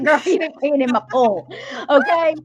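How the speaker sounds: put-on high, loud sassy girl; woman teasing her friend, sassy; sassy retort. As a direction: sass her right back. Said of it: "And I was like".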